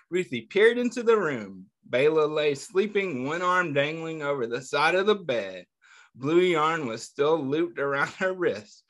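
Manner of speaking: put-on reading a picture book aloud to kids, a touch lively; story narration. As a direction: tell the story gently to a class of children. Teacher reads picture book aloud.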